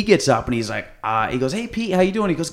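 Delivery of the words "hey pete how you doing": much higher, singsong hello; host greeting Pete, high and playful; mock greeting. Greeting Pete in retold skit.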